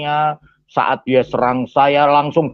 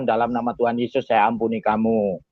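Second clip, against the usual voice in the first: lower, softer pronouncement after the pleading; calm forgiveness; 3 semitones lower, 5 dB quieter than usual. Retold or imitated. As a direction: quietly grant pardon. Solemnly forgives the beaten attacker. (pengampunan yang tenang)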